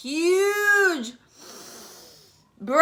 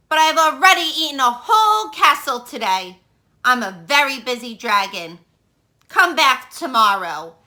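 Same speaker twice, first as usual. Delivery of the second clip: a lightly voiced grumpy dragon, loud and boastful; 5 dB louder than usual. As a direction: boom it out like a bored, busy dragon. Dragon voiced in read-aloud story.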